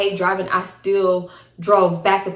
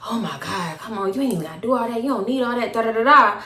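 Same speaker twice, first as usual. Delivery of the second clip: mock impatient boyfriend; faster than usual. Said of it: "huffing and puffing".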